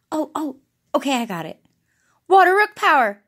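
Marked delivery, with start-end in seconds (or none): 2.3-3.2 loud battle cry, playful; heroic power-up call. Pretend. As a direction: call out the power-up like a cartoon hero. Pretend hero power-up call.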